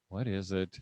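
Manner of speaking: low, soft, weary response; exasperated parent. Acted. Parent interrupted mid homeschool lesson, exasperated. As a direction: answer as if put upon.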